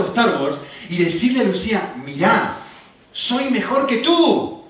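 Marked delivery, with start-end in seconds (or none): 2.0-4.6 put-on slow, loud childish taunt; mock boast. Preacher imitating daughter boasting to Lucía, slow and smug.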